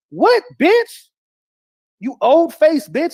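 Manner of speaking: sudden high outraged yelp; indignant high squawk. Real, not acted. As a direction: spit it back in disbelief, voice jumping high. Outraged retort.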